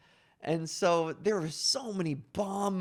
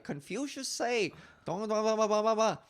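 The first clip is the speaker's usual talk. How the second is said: mock Chinese stereotype; 4 semitones higher than usual. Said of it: "who would do Confucius Say lines".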